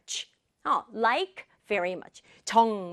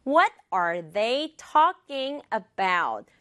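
very slow, evenly spaced words; much slower than usual. Shown as a demonstration. Teacher introducing sentence three, slow word by word. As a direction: spell out "What are they talking about" word by word. Slow repeat before stressing.

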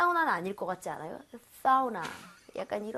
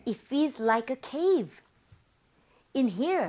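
slow read; much slower than usual. Shown as a demonstration. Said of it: "그래서 와".

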